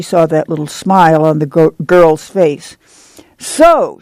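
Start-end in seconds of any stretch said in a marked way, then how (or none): 3.4-4.0 high, swooping exclamation; delighted cry. A narrator's reading. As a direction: cry it out with pleasure. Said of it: "she cried".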